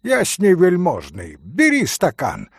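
eager, bustling host; a touch of fussing, pressing a glass on the pan. Acted. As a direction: hurry them to take a glass. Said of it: "хлопотал Митя".

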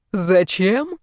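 annoyed echo of the question; irritated echo. A narrator's reading. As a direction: throw her question back, annoyed. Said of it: "раздражённо переспросил мужчина".

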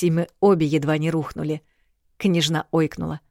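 usual speaking voice

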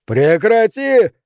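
high, slow, loud scream. Acted. Neil screaming at the ghostly howl, terrified scream. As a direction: yell it stretched out in terror. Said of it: "завопил он".

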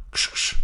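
a shooing ksch; shooing hiss. Acted. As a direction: shoo the bird away. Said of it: "machte Leander".

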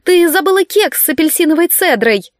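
yelling. A narrator's reading. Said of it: "завопила с крыльца Марта".

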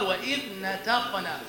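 نتقنا with a light thin ta, slowly; skilled clear ta. Shown as a demonstration. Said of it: "إذا كان ماهرا قال".

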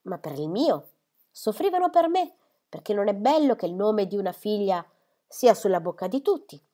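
self-pitying mother, voice jumping high; mother protesting shrilly about gossip; aggrieved mother. Acted. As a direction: insist it was about her reputation. Mother's exclamation continues.

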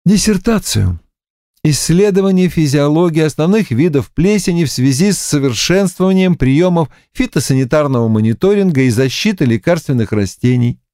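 flat, droning recital of a title; monotone recitation. Acted. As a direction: recite it like a bored robot. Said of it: "монотонно продекламировала Ольга".

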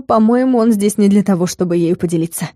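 usual speaking voice

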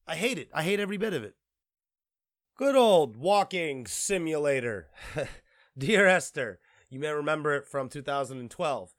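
ordinary talk

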